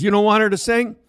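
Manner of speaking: Frosty can't believe it, voice jumps high; surprised question. Retold or imitated. Trainer Frosty asks the coach, high surprised question.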